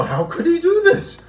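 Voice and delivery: hammed-up sarcastic lament; mocking whiny imitation. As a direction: parody her as overwrought and self-pitying. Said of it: "gets huff puffed out of her mind".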